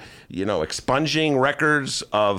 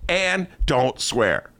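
mock protest; 9 semitones higher than usual. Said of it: "But I go".

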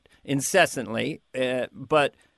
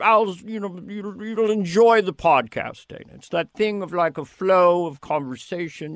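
lightly exaggerated producer impression; hint of a rambling boss, words stretched; Lorne. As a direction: imitate a boss musing in loose fits and starts. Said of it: "it's an exaggeration".

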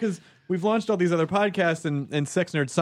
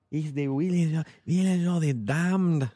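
put-on Latino accent. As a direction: say it like the diner guy. Mock Spanish rendering.

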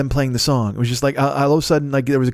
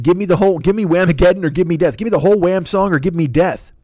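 orator quote; 5 semitones higher, 4 dB louder than usual. Retold or imitated. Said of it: "He said".

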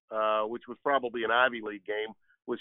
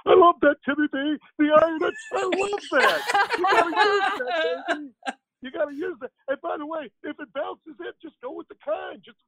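high, loud, excited hype-man voice with laughs; Dick Vitale impression; 6 dB louder than usual. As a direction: shout it like a fired-up basketball announcer. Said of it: "That was a spot on Dick Vitale".

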